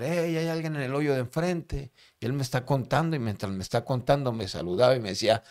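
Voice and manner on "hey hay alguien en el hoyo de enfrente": raised-pitch reported shout; retold calling out. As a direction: imitate a prisoner calling to the cell opposite. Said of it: "empezó a gritar".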